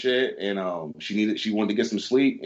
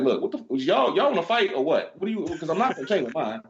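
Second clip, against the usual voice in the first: daring challenge; 7 semitones higher than usual. Retold or imitated. Clerk dares the angry guests to fight, defiant. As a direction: square up to the cussing pair.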